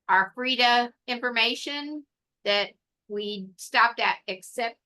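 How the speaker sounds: talking through hiccups; words broken by hiccups. Real, not acted. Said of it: "got the hiccups".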